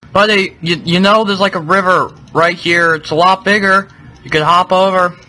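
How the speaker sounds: gently urging a stubborn animal; talking to a pet. Real, not acted. Talking to the Elder Guardian.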